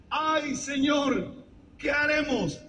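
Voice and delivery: mock worried servant. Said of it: "¿Qué es lo que decía el otro criado?".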